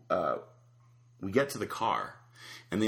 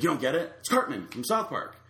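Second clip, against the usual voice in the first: higher-pitched retold disbelief; mock indignant explaining; 5 semitones higher than usual. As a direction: imitate someone amazed you missed the joke. Retold driver explains his failed impression.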